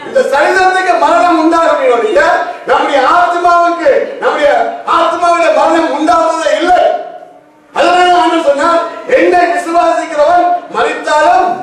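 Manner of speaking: forceful sermon declaration; impassioned preaching. Acted. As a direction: preach it out to the congregation.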